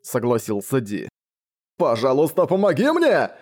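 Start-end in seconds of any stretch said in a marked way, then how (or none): 1.8-3.3 desperate cry. A narrator's reading. Abandoned baron crying after D, much higher on help. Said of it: "закричал барон Макула".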